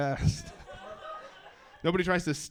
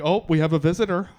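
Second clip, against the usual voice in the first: higher, amused mock welcome; fussy host; 5 semitones higher, 6 dB louder than usual. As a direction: play the flustered host tidying for a guest. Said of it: "You're like".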